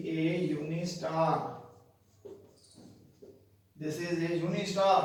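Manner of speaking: "uni" opening with a "you" sound; slow, clear "uni", y at the start; U pronounced as you. Shown as a demonstration. Teacher showing a spoken U, "uni" begun as "you". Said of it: "यू बोला जा".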